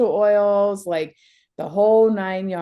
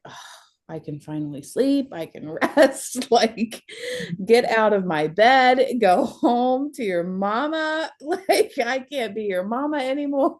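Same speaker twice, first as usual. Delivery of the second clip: laughing mock send-off; 6 semitones higher than usual. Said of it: "I was like".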